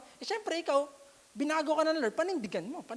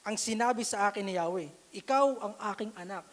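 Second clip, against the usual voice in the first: scripture reading; 2 semitones lower than usual. Shown as a demonstration. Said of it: "Ito, Tagalog po".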